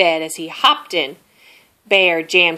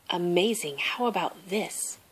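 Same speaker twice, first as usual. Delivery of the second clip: much softer, muffled; muffled under pillow; 10 dB quieter than usual. A narrator's reading. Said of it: "from under his pillow".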